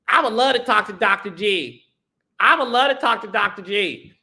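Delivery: affectionate light mimicry of his voice; Doctor G. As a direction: lightly mimic him, a little lifted. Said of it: "That's how he sounds to me".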